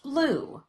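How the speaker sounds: Blue said high, falling sharply; drawn out falling Blue; pitch fall on Blue. Shown as a demonstration. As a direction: sweep the pitch down through Blue. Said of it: "Listen for that change in pitch".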